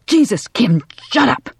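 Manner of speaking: exasperated yell, rising in pitch. A narrator's reading. Man silencing a screaming neighbour, exasperated yell. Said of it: "Johnny yelled".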